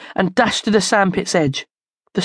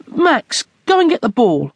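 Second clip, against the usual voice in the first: calling after the dog, raised; 6 semitones higher than usual. Acted. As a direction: shout to the dog across the park.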